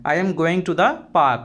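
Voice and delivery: slow, carefully spelled-out English phrase; slow and clear classroom model phrase; slow teaching demo. Shown as a demonstration. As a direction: say each word slowly for the learner. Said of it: "सामने वाले का response आया".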